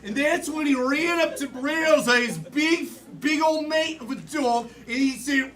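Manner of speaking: put-on Australian accent. Improv player running to a dog, put-on Australian accent. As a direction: narrate as a comic Australian. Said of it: "and Australian".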